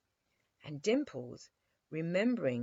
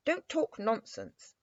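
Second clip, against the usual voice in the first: gruff; 6 semitones higher, 4 dB louder than usual. A narrator's reading. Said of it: "said the captain gruffly".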